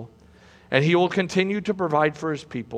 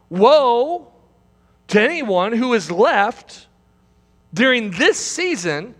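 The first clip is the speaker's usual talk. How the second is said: cried woe; 5 semitones higher, slower than usual. Acted. Preacher cries out woe.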